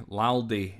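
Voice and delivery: laldy said as lowdy, broad Scots vowel. Shown as a demonstration. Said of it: "L A L D Y".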